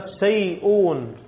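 سيئون stretched out slowly; slow dictation. Shown as a demonstration. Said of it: "كيف أكتبها؟".

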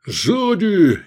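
sharp high loud warning cry; shouted warning. Acted. Gefestai shouting a warning to Edik. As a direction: yell it to warn a comrade. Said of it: "крикнул Гефестай".

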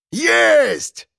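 high triumphant shout; triumphant yell. Acted. Piston yells in triumph as the dog is netted, high victory shout. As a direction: crow over the catch. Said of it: "вопил Пистон".

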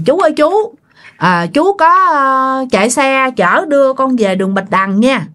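lightly acted passenger asking for a ride; polite hailing. Passenger hailing a cyclo driver. (gọi xe lễ phép, giọng cao hơn)

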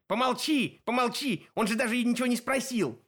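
high shrill hag shouting shut up; shrieking old women hushing; yelling hush. A narrator's reading. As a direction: scream at the blabbing sister. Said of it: "завопили".

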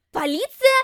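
sharp barked question. A narrator's reading. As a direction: snap the word back. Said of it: "рявкнула Лилит".

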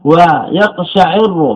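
ويقشعر slowly as wa-yaq-sha-'IR-ru; kasra on the ayn. Shown as a demonstration. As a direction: stretch ويقشعر, i on the ayn, doubled r. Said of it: "بكسر العين".

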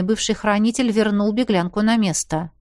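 plain reading voice

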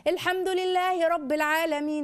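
slow, drawn-out recitation of الحمد لله رب العالمين; slow teaching recitation. Shown as a demonstration. Mother reciting to her one-year-old, slow and clear. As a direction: recite it slowly, as if teaching a toddler. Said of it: "اسمعي بس معايا".

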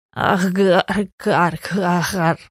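croaky crow-like coughing; cawing cough. A narrator's reading. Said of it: "закашлялась она".

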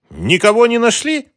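high, loud taunting question; mock them for finding nothing. A narrator's reading. Mara taunting the thugs, high and mocking. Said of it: "спросила она с издёвкой".

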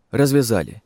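ordinary delivery, nothing marked

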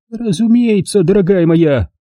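a hint of a high old lady's voice; lightly voiced lady. A narrator's reading. Miss Rushby nods to Jigger, lightly voiced. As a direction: agree kindly, lightly voiced. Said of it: "кивнула мисс Рашби".

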